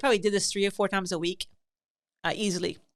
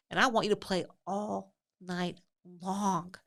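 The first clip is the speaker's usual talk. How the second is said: syrupy mock tenderness; 2 semitones higher than usual. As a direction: overdo the sweetness as a joke. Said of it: "And I was like".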